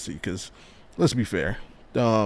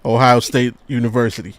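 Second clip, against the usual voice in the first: mock athletic director; 5 dB louder than usual. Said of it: "They gonna walk straight into Ryan Day's office".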